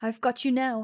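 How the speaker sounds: loud, menacing, threatening villain-like hiss. Narrator voicing Alcina as she throttles you, a menacing hiss. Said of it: "she hisses menacingly".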